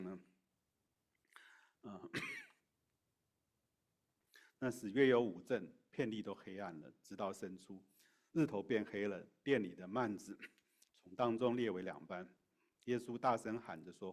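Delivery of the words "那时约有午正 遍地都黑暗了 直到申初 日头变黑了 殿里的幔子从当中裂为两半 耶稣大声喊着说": louder, declaimed Bible reading; scripture reading. Acted. Preacher reads the crucifixion account to listeners, declaimed scripture reading. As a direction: read the passage out firmly to the congregation.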